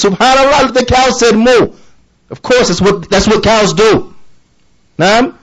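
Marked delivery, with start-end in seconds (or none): 0.0-1.7 mock-amazed, pitched higher; mock amazement. Mocking someone marveling at a cow, in pretend awe. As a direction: play the gawking passer-by amazed at nothing. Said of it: "No one walks by a dairy farm and says".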